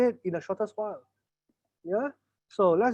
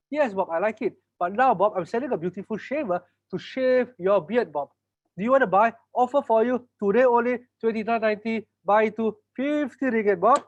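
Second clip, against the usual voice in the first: pushy salesman; 3 semitones higher than usual. Acted. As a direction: push the deal on Bob. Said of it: "let's role play a little bit".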